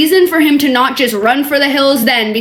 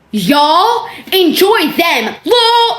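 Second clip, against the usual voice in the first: mocking her text; 5 semitones higher, much slower than usual. Mocking the woman's text aloud.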